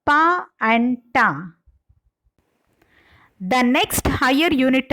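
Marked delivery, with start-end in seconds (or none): 0.0-1.5 "pa" and "ta" sounded out slowly; initial sounds shown. Shown as a demonstration. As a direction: say the sounds "pa" and "ta" separately, drawn out. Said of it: "because of their initial sounds".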